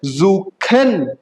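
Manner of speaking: जूखन slow, as "zoo-khen"; stretched जूखन with back kh; German suchen. Shown as a demonstration. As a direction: split जूखन into two long syllables. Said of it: "वैसे ही बनता है".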